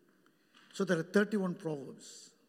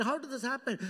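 1 laughing question; 2 semitones higher, faster than usual. Retold or imitated. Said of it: "I asked the Spirit".

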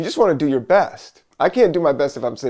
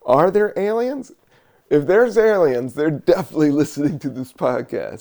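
louder, higher, excited question; excited wondering; 4 semitones higher, 4 dB louder than usual. Real, not acted. Podcaster suddenly excited about aliens listening, louder. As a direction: get excited at the thought of aliens.

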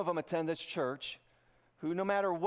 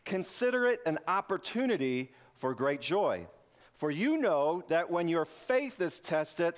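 scripture reading. Acted. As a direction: read the verses with weight. Reads scripture aloud slowly.

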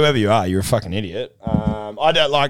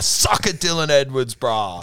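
gloating taunt; 4 semitones higher than usual. Retold or imitated. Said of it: "I'm like".

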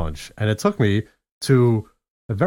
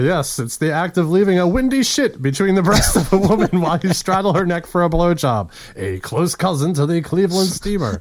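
raised, showy reading voice; hammed-up definition read; 5 semitones higher than usual. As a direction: read it out with mock authority. Reads out joke definition.

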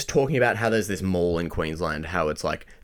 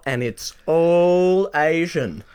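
a lightly voiced fretful old nana, higher; 7 semitones higher, 3 dB louder, slower than usual. Mocking old locals complaining about the shops, lightly voiced nana. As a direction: mimic a worried older Aussie, slowed on the end. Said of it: "You sound like my nana".

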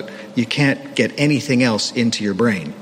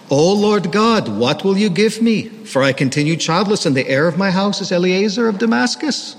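put-on Jewish accent; 7 semitones higher than usual. Preacher reads Abram's complaint to God in a Jewish accent. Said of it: "you do have to read this passage with a Jewish accent".

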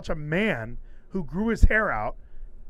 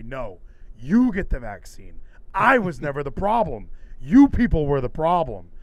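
retorting; 7 dB louder than usual. Pretend. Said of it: "I should be looking at you and say".

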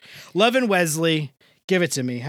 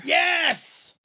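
excited; 11 semitones higher than usual. Real, not acted. Cheering Rachel's pick of Claire.

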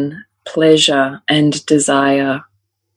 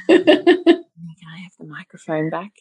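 put-on slow toddler; 3 semitones higher, slower than usual. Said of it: "She said".

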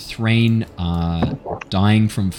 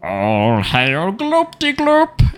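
high, slow croaking fish-man praise; drawn out high worship cry of a fish creature; fish creature worshipping; 11 semitones higher, much slower than usual. Acted. Fish-man bowing before his new god, high slow worship.

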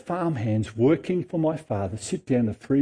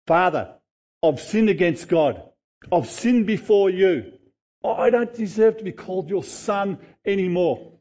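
higher, pleading voice of a sorry son; the returning son pleading with his father, higher and earnest; pleading confession; 6 semitones higher than usual. Acted. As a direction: beg forgiveness, voice lifted and earnest. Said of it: "The son started his speech".

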